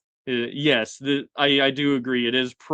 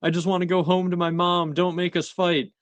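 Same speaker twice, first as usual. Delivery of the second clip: put-on higher, pleading little kid voice; children begging; 6 semitones higher than usual. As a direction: beg like a scared eight-year-old. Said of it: "are begging".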